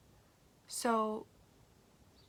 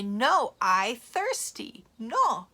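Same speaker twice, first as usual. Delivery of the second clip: put-on whiny child; 7 dB louder, much slower than usual. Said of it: "And you say".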